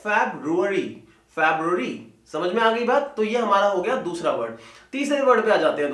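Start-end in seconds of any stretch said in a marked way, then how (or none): 0.0-1.9 फेब्रुअरी as FEB-roo-uh-ree; correct pronunciation. Shown as a demonstration. Teacher correcting Hindi habit, फेब्रुअरी with English "feb-roo". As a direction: keep the "br" in फेब्रुअरी. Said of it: "क्या होता है?".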